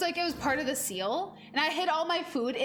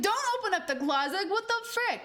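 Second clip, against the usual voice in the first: high-pitched, exasperated mock yell; mock movie heckling; 8 semitones higher than usual. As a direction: plead with the character on screen. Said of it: "I yell at the movie".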